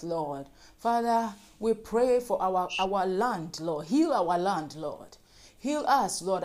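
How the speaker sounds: earnest, rhythmic pleading for mercy; fervent prayer. Real, not acted. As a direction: cry out each plea, then let "Lord" fall away. Leads congregational prayer.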